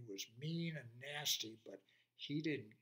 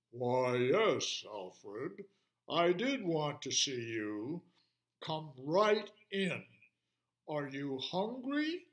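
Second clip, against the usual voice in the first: deep lion voice; 5 dB louder, slower than usual. Acted. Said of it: "Mister Lion's deep voice".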